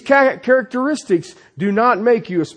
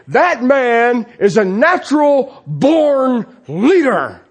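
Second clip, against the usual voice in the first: slow, emphatic praise of a leader; mock-grand declaration; admiring pronouncement; 2 semitones higher, slower than usual. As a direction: draw out each word in admiration. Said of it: "people will normally look at Peter and say".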